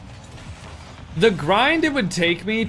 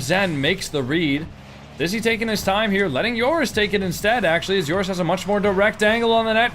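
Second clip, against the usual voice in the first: play-by-play. Acted. Live match commentary.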